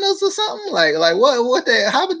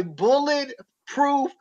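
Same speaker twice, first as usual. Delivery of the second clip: mock commentator; much slower than usual. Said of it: "they was like".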